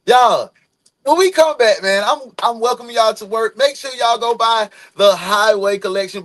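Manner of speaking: high, loud call to the crowd; rally everyone before the break; hyped announcement. Real, not acted.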